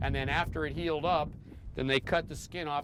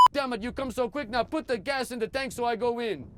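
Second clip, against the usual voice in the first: put-on light French accent, pitched up, telling a race story; Gaston's French accent; 10 semitones higher, 4 dB louder than usual. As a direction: play the boastful French-speaking racer telling his tale. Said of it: "and he said".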